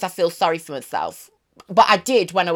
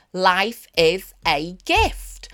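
slow reverent mantra; much slower than usual. Real, not acted.

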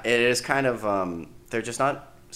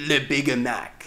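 mock French accent; much slower than usual. Joking French name.

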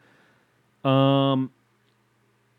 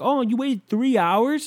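mock disbelief; 12 semitones higher, slower than usual. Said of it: "you're like".

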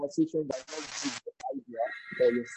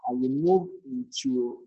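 slow emphatic repeat; slower than usual. Shown as a demonstration. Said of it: "I'll say that again".

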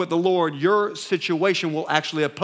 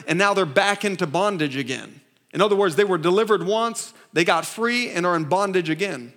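normal talking voice

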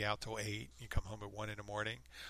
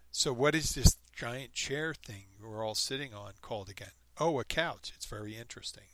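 mock wonder; 4 dB louder than usual. Playing dumb about a couch to her parents, with mock wonder. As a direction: feign never having seen a couch. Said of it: "commenter's suggested fake ignorance".

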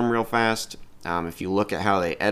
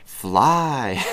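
much higher and louder, pleading at the wrist; Peter commanding webs; 6 semitones higher, 4 dB louder, much slower than usual. Retold or imitated. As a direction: urge the web to shoot. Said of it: "sitting there going".

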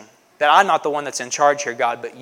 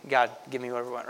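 demanding; 3 semitones lower, 9 dB quieter, much faster than usual. Retold or imitated. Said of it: "You know, we".

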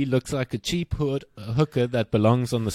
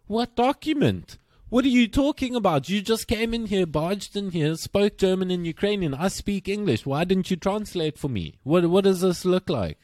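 indignant; 7 semitones higher than usual. Retold or imitated. Retelling arguing with teacher.

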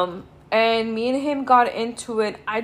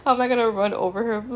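laughing. Real, not acted.

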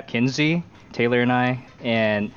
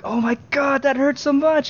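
mock crying; 3 dB louder than usual. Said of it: "I was, like, crying".

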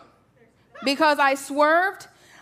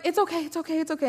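quick retold self-reassurance, still raised in pitch; self-soothing; 5 semitones higher, much faster than usual. Mother trying to calm herself down, acted self-soothing. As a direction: talk yourself down from a scare. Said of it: "trying to calm myself down".

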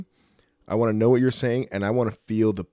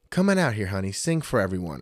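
lightly voiced aunt calling her niece out; coaxing aunt. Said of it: "her aunt's like".

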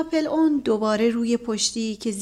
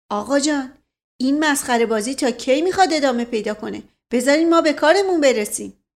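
mild shout; 4 semitones higher, 5 dB louder than usual. Acted. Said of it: "دایجان سرهنگ فریاد زد".

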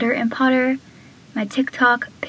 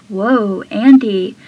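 surprised whoa; 5 dB louder, slower than usual. Retold or imitated. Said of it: "he just does it like that".

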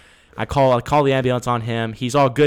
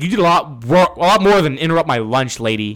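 angry retort; 2 semitones higher, 4 dB louder than usual. Retold or imitated. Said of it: "Pissed me off".

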